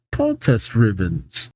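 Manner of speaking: low, slow disdain; dismissive. Acted. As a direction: drop the pitch and draw it out dismissively. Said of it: "very dismissively says".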